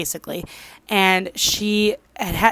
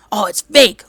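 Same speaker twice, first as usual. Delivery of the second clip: louder mock scoff, hitting "fake"; dismissive denial; 8 dB louder than usual. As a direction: imitate someone loudly brushing it off. Retelling husband's loud denial.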